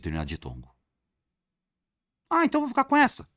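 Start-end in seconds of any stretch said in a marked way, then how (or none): 2.3-3.3 high, fast, put-on student voice; mock student. Teacher mimicking a student who picks the wrong answer, high. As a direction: play the naive student picking an answer.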